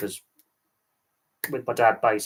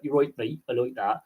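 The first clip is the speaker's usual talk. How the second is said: mock country-bumpkin English accent; West Country accent. Explaining regional accents to viewers, imitated country accent. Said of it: "Country accents".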